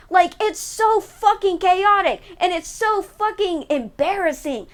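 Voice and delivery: venting her fury at the sequels; frustrated rant. Real, not acted. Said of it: "to vent my angry".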